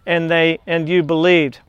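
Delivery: measured, earnest scripture reading. Acted. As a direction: read the verses like a preacher. Reads scripture aloud in sermon.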